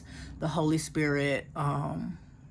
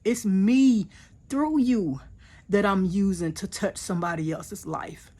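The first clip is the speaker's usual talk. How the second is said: higher, louder and firm, God's reassurance; God's reassuring voice; 4 semitones higher, 4 dB louder than usual. Retold or imitated. She voices God telling her it's not her, higher and firm. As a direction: speak as God, lifting her up and insisting. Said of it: "God was saying".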